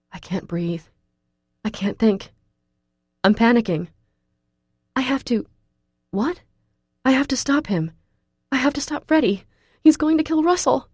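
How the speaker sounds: spiral into panic, breath short; rising panic. A narrator's reading. Sudden panic attack.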